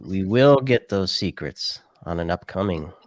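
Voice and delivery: lightly villainous vow, stretched emphasis on WILL; a hint of playful scheming villain; mock evil voice. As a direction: vow it like a half-hearted villain. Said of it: "He says it's in an evil voice".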